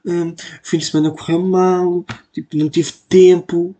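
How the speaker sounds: fake excuse to listeners. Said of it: "eu não vou ser hipócrita e dizer".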